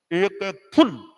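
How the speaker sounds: फुल with a short clipped u; short vowel फुल. Shown as a demonstration. Teacher contrasting short u in फुल. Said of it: "अब English में एक तो फुल, एक फूल".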